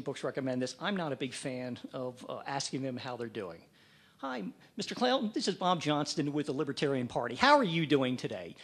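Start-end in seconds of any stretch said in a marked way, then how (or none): 4.2-8.6 mock cold-call greeting. Shown as a demonstration. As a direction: play the over-eager fundraiser on a call. Demo of disliked sales greeting.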